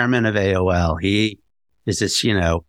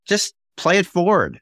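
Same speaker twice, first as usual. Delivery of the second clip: higher, upbeat podcast sign-off; signature sign-off; 8 semitones higher than usual. Retold or imitated. Host quoting his closing line to listeners, upbeat. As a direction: sing out his catchphrase to listeners. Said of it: "I always end these podcasts by saying".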